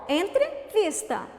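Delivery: "entrevista" said slowly as entre, then vista; split into two words. Shown as a demonstration. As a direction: pause inside "entrevista" to show the hidden word. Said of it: "tem uma palavra escondida nela".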